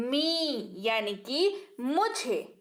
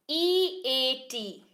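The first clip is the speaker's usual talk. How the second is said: each letter drawn out very slowly; very slow spelling; much slower than usual. Shown as a demonstration. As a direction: spell it out with long gaps, very slowly. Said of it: "इसको पढ़ते हैं ईट".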